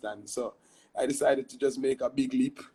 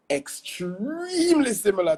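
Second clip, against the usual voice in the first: laughing through the line, pitched up; 9 semitones higher, 6 dB louder, slower than usual. Real, not acted. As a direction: chuckle while making the point. Amused about Pidgin and Patois.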